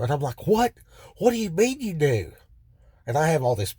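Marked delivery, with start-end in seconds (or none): 0.5-2.3 much higher, incredulous what; can't believe you kept this from me; outraged disbelief. Retold or imitated. Inmate confronting his cellmate in shocked outrage.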